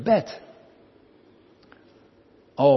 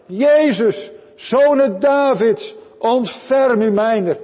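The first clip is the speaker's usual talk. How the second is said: calling out high and loud, drawing out Zoon Davids; a blind beggar shouting for help over the crowd; desperate loud cry for mercy; 8 semitones higher, 5 dB louder, slower than usual. Acted. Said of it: "Maar hij riep nog harder".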